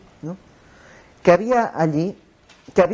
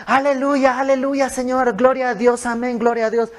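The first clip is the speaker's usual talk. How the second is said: exclamaciones agudas y seguidas, en parodia; gritos religiosos imitados; 7 semitones higher than usual. Retold or imitated. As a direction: imita el fervor hueco de boca para afuera. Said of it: "Ella está gritando". (aclamación religiosa fingida, aguda y machacona)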